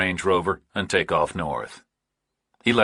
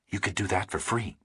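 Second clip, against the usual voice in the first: softer, cool and distant; quiet, faintly hostile; 9 dB quieter than usual. A narrator's reading. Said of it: "Pauling was quiet and faintly hostile".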